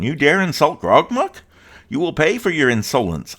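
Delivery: high, loud goblin outrage; angry goblin. Acted. Goblin leader threatens the insolent player, high and loud. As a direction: bark it like an offended goblin chief.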